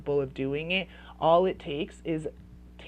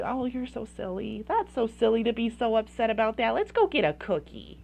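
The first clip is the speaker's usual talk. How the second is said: dismissive parent; 4 semitones higher than usual. Retold or imitated.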